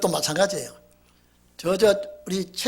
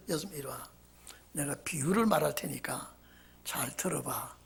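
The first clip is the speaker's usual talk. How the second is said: soft, much quieter, trailing into a whisper; calm and unhurried; 6 semitones lower, 13 dB quieter than usual. Retold or imitated. Jesus calmly calling his accusers over, soft and unhurried. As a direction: gently invite them to listen. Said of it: "여유 있는 주님의 태도".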